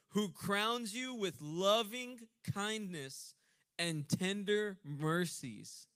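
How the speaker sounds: slow, loud, drawn-out proclamation; preaching scripture. Acted. Preacher proclaiming healing to congregation, drawn out. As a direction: stretch every word for the room.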